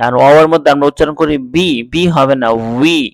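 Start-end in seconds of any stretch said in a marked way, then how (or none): 2.8-3.0 উই said with both lips rounded. Shown as a demonstration. Teacher shows the waw sound with rounded lips. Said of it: "দুই ঠোঁট গোল করে উচ্চারণ হবে".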